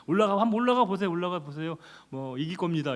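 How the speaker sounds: fast, sneering "올라가 보세요"; mock the king with fake encouragement; sarcastic. Prophet sarcastically urging the king to go to war. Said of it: "사케스틱한 거예요".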